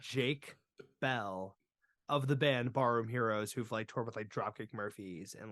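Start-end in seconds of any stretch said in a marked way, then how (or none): 0.0-1.6 JAKE set apart, then a pause before Bell; stress on JAKE. Shown as a demonstration. Stressing the correct name.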